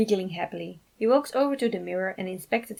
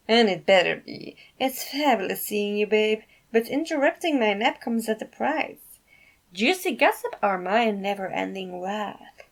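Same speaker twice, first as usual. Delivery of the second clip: sassy drowsy Remy; 2 semitones higher, 4 dB louder than usual. Acted. Sassy Remy demands a price.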